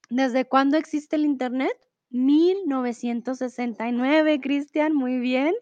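eating while talking; words round a bite of food; mouth full. Real, not acted. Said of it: "ando picando un poquito".

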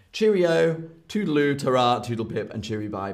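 put-on old-fashioned Brit. Shown as a demonstration. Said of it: "old-fashioned British people".

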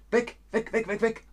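high, sing-song repeats of weg; playful weg calls. Shown as a demonstration. Teacher to students, showing things leaving, high and playful.

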